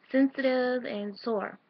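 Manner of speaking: breathless, slow words; out of breath. Real, not acted. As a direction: speak short of breath. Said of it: "I'm out of breath".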